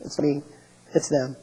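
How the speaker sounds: softly voiced, hesitant excuse; mild mock-sheepish protest; meek Eli. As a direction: interrupt timidly, passing the blame. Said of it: "and Eli says".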